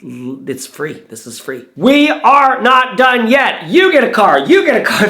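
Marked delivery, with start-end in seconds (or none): 1.8-3.7 slow, loud announcer build-up; excited hype. Real, not acted. Vlogger hyping viewers about more giveaway prizes, excited. 3.7-4.4 loud, high game-show yell; Oprah giveaway shout. Pretend. Vlogger joking that every viewer wins a car, mock Oprah shout. 4.4-5.1 loud, high game-show yell; Oprah giveaway shout. Pretend. Vlogger joking that every viewer wins a car, mock Oprah shout.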